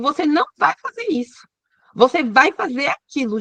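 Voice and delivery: mock bossy wife laying down orders; mildly hammed-up ordering about. Wife bossing her husband around, mock bossy. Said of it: "mandar o marido".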